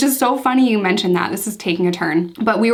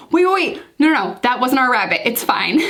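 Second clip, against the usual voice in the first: much higher and urgent, retold relief; sudden realization; 4 semitones higher than usual. Husband hears the rabbit hopping, high urgent relief. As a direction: blurt it out, stopping everyone. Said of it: "he's like".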